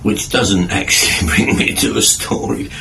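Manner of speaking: breathy, laughing correction; self-mocking chuckle; laughing at himself. Real, not acted. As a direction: giggle through the retraction.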